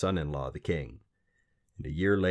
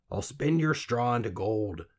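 little man voice; 4 semitones higher than usual. Acted. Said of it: "the little man said".

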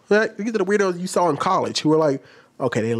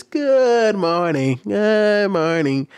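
slow, drawn-out mocking greeting; mock singsong greeting; 4 semitones higher, much slower than usual. Mocking trainers who greet adults like kids, slow singsong. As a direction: stretch it out like talking to kids. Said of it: "this fake excitement".

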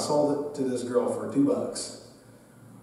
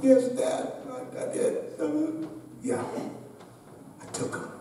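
sheepish confession; 9 semitones higher, 8 dB quieter than usual. Retold or imitated. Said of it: "Did you take those glasses".

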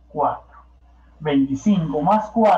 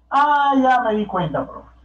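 acted sudden realisation; 5 semitones higher than usual. Pupil tells the teacher they have figured it out, dawning realisation. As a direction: play a pupil who has just caught on.

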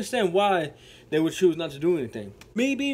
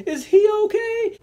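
high, louder panicked question; panicked scream; 6 dB louder than usual. Retold or imitated. Hurt girl screaming whether the biker is okay. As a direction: cry it out in fear. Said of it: "She screams".

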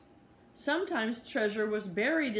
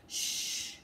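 whispered shush, much softer; 6 dB quieter than usual. Acted. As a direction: hush someone with a finger to the lips. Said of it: "put his finger to his lips".

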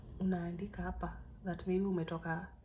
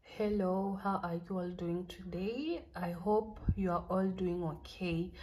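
letter reading; slower than usual. Shown as a demonstration.

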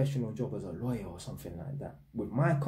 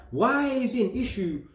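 higher-pitched indignant questioning; exasperated imagined comeback; indignant challenge; 4 semitones higher, 3 dB louder than usual. Retold or imitated. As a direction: challenge them, acting out an unspoken retort. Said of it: "I didn't say it, but I'm like".

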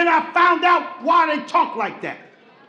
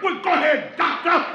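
trying to act tough; 3 semitones higher than usual. Retold or imitated. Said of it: "tried to be hard".

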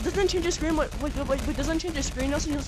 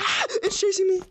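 panicked yelling, being chased; scared horror game streamer; 7 semitones higher, 5 dB louder than usual. Real, not acted. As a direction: yell in fright as it chases you.

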